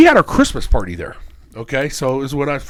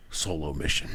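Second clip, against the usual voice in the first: low, hushed solo mission; dad quietly explaining he came alone; mock secretive; 13 semitones lower, 14 dB quieter than usual. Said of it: "He goes".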